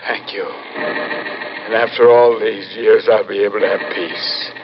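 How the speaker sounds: grateful at last for coming peace; relieved gratitude. Acted. Head relieved, finally hopeful.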